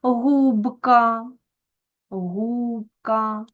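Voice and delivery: "Губка" with a clear Б, long stressed У; clearly voiced consonant. Shown as a demonstration. Teacher shows voiced sounds staying clear, clearly voiced consonant. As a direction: keep the Б distinct in "Губка", never turning to П. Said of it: "а вимовляються чітко".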